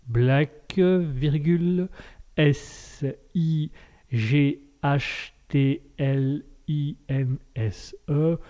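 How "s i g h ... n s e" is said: spelled out slowly. Shown as a demonstration. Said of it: "Alors je répète".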